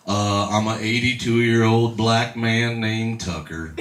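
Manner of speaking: lightly voiced slow old man; hint of an unhurried elderly caller; Tucker. Caller owns up to catfishing, lightly voiced slow old man. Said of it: "And the voice goes".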